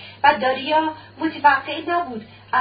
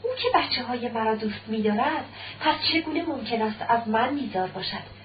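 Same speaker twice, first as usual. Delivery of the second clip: softer musing question; to himself; 3 semitones lower, 6 dB quieter than usual. Acted. Husband reasoning privately about his wife, softly to himself. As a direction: wonder it quietly, half hopeful. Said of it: "پیش خود گفت".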